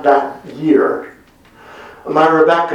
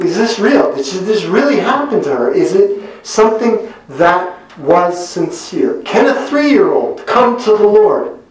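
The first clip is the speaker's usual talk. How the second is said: raised, wondering questions, a touch of awe; father recalls doubting his daughter's conversion, awed and raised; amazed disbelief; 4 semitones higher than usual. Retold or imitated. Recalled disbelief, louder retelling.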